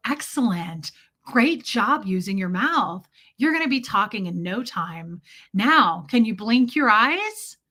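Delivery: imitated baby talk with swooping praise; mock-encouraging grandma coaching an infant; Brenda. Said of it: "this is how they would talk to a baby".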